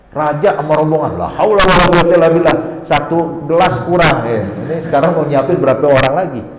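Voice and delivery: loud, exasperated grumble of an imitated housewife; grumbling. Housewife moans at the king's whole party turning up, grumbling loudly. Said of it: "Tadinya ngomel".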